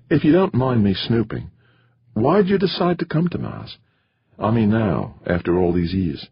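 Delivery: high-pitched, inquisitive character voice; curious dinner companion. A narrator's reading. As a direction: ask politely but pryingly, pitched high.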